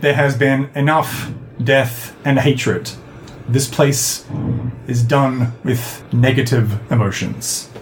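slow, measured, stern verdict; stern pronouncement. Acted. Signer forgiving the old man who killed him, stern. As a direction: lay it down firmly, pausing between phrases. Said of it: "looks at him sternly and signs".

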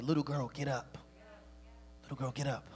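low, soft and tender; gentle command. Retold or imitated. Preacher voicing Jesus at the sick girl's bedside, gentle and low. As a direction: softly coax a child to rise.

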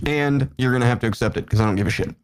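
talking with mouth full; eating while talking. Real, not acted. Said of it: "I'm eating".

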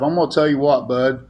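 ordinary talk

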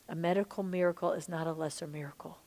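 a soft, breathless whisper as if hearing God inside; whispered words from God. Retold or imitated. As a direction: hush it like a secret revelation. God's word dropped into spirit.

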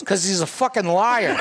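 breaking into laughter on the punchline; can't hold it together at the payoff; punchline half-swallowed by laughter; laughing punchline. Real, not acted. Punchline of the talking dog joke.

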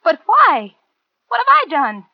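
high, loud, frightened protest; desperate pleading. Acted. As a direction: beg your killer for a reason. Pleads at gunpoint.

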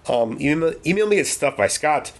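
talking with the hiccups; hiccuping between words. Real, not acted. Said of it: "I'm getting the hiccups now".

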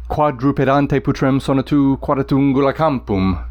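Latin line beating like hoofbeats; galloping recitation. Shown as a demonstration. Teacher reading Virgil's hoofbeat line, rhythmic. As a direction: let the dactyls gallop. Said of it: "describes the sound of hoofbeats".

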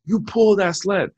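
mock coach chant; coach yelling. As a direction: drive it on like a coach in my ear. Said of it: "my coach gets in my ear and he's like".

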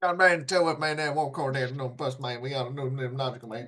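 Boomhauer mumble. Retold or imitated. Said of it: "sounds like Boomhauer".

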